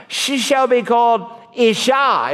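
high, delighted pronouncement; Adam. Acted. Adam naming the woman, exclaiming high and excited. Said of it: "Adam exclaimed".

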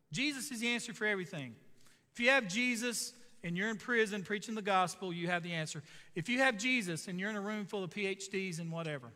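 repeated "you have" hammered home; sermon cadence; preaching refrain. Acted. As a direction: preach it, building each line.

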